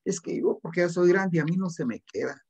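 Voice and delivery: a lightly voiced lazy student's whiny excuse; hint of a complaining adult student; mocking excuse-maker. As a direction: mimic a grown student excusing himself. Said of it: "Hay gente que dice así".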